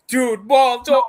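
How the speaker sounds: high, loud comic plea; mock panic. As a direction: cry out in hammed-up alarm. Voicing Vario begging Maul.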